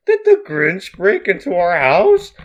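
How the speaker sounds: loud cartoonish waking outburst; startled goofy uncle. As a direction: blurt it out loudly in character. Uncle Brewston startled awake.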